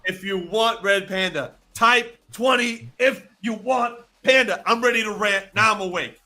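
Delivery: loud, high-pitched rallying call; rally the chat, suddenly wide awake; fired up. Real, not acted. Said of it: "and now he's suddenly awake".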